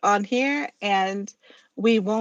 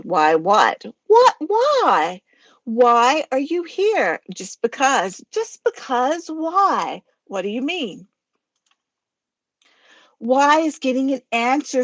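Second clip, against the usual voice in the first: two-voice skit argument. Acted. Reading a skit alone, arguing as Gilda and Godzilla. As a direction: bicker back and forth in two voices. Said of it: "Harry was gonna do Gilda's voice".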